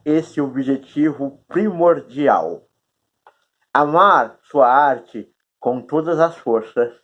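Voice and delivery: talking around a cork held in the mouth. Real, not acted. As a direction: speak with a cork between your teeth. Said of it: "É engraçado falar com essa rolha na boca".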